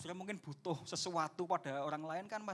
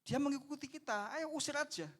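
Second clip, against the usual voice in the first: higher, irritated brush-off; pitched-up grumbling disciples wanting her gone; annoyed disciples; 8 semitones higher than usual. Retold or imitated. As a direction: wave her away impatiently. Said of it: "murid-murid katakan".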